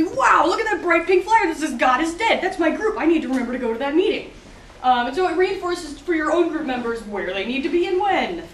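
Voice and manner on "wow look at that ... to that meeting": excited. Retold or imitated. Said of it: "your regular meeting members will be walking down campus and be".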